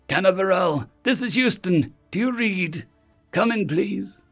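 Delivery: high, urgent pleas to each city; anxious mission control hailing; desperate radio calls. Acted. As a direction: keep hailing anxiously, pleading for a reply. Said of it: "Panicked voices washed over one another".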